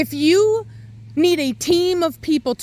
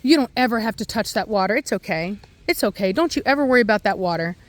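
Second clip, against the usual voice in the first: coddling parent; faster than usual. Retold or imitated. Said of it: "you're like".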